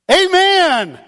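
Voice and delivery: high, loud, slow amen; a happy cry of agreement; joyful amen. Real, not acted. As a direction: shout it with delight. Preacher's joyful exclamation.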